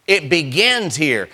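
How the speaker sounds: It "begins" here, with "begins" drawn out and weighted; stress on BEGINS. Shown as a demonstration. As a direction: lean hard on "begins", slowly. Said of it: "Let's, let's emphasize the word begins".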